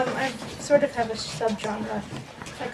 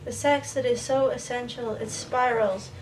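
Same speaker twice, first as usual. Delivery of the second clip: even, list-like poem recital; poetry reading. Acted. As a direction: build the list phrase by phrase, with pauses between.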